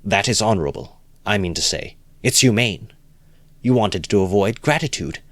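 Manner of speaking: lightly voiced enthusiastic idealist; eager Lebeziatnikov. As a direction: gush with approval.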